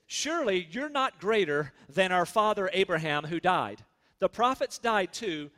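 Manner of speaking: emphatic scriptural challenge; challenging scripture quote. Acted. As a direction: read the accusers' challenge emphatically. Accusers challenge Jesus in scripture.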